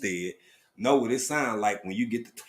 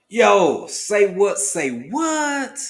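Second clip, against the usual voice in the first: a singer's voice; 7 semitones higher, 4 dB louder, much slower than usual. Pretend. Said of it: "In my singer voice".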